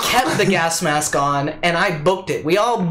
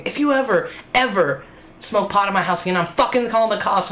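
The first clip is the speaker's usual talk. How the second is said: mock mom screaming; 3 semitones higher, faster than usual. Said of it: "my mom screaming".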